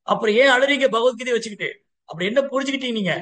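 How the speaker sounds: high, insistent questioning; eager questioning. Acted. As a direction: cut in keenly wanting the reason. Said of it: "ஆவலா கேக்குறாரு".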